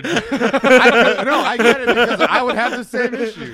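loud laughing through the words; laughing protest. Real, not acted. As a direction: laugh hard while denying it.

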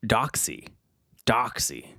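Doxy said as dock-see, both syllables even; spelling-based guess. Shown as a demonstration. Reading an unfamiliar dog name, trying Doxy aloud. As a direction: sound out Doxy carefully, like a guess. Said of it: "That's how I'm pronouncing that".

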